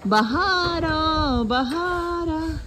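long stretched calling out; slow sung-out call; drawn-out call. Real, not acted. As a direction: stretch each syllable like calling across the valley. Calling out on hilltop.

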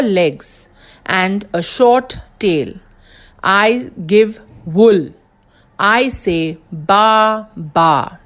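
slow, drawn-out "ba ba"; slow riddle read. Shown as a demonstration. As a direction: stretch out "ba ba" for the children. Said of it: "Again, I will read it".

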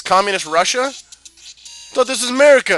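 mock a South Park kid; South Park parody. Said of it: "I'm ripping off South Park".

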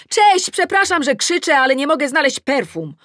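high, loud apologetic call; shout. A narrator's reading. Explaining to neighbour Ula at her window, shouting. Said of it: "Krzyczę do Uli".

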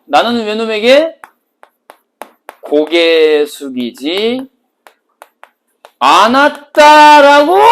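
숙이지 않았다라고 drawn out, 않았다라고 loud and high; emphatic slow declaration. Pretend. Teacher stressing 않았다라고 to show pride. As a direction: hammer the ending 않았다라고 slowly. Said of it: "화자 입장에서".

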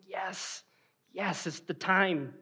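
soft, private yes to yourself; hushed anticipation. Acted. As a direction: savour it quietly under your voice. Husband privately anticipates the moment.

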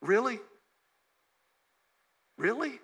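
incredulous. Retold or imitated. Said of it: "she's thinking to herself".

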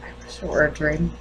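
high, strained grief with long halting pauses; grieving, guilt-stricken mother. Acted. Mother realizing the children are gone forever, anguished. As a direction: let the pitch climb into self-blame. Character grieves and blames herself.

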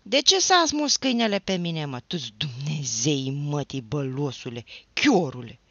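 loud high furious tirade; a drunk, heartbroken lad raging at the neighbour; shouting without fear. A narrator's reading. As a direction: yell it all, losing all measure. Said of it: "să strige fără teamă".

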